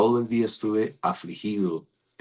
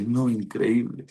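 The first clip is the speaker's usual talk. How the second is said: slow, higher-pitched imitation of disbelief; retold amazement; 5 semitones higher, slower than usual. Nurse reacting to his word from God, amazed. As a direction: draw out the quoted amazement, pitched up.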